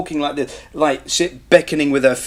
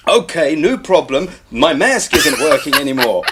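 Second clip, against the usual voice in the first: mock calm narrating. Heroine reports failing mask, mock calm narration. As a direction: announce the peril as a mild update. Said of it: "Stop talking like that".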